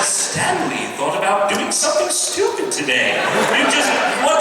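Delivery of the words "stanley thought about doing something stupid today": slow, lightly British narrator voice; a touch of British storyteller; British accent. Retold or imitated. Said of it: "in a slightly British voice".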